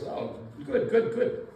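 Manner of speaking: a hint of a delighted teacher, lightly voiced; pleased teacher. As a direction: coo approvingly like a pleased teacher. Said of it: "the teacher is very happy about this".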